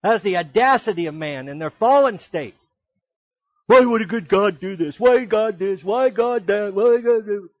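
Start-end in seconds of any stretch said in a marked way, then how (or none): 3.7-7.5 mock complaining believer. Voicing people complaining to God.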